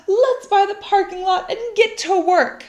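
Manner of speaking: rally everyone to start; excited cry. Acted. Miss Severs cheers about the treasure, high and eager. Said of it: "cried Miss Severs".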